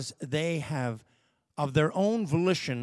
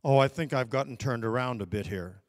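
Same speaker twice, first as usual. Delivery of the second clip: composed; 4 semitones lower, faster than usual. Retold or imitated. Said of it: "composed himself and said".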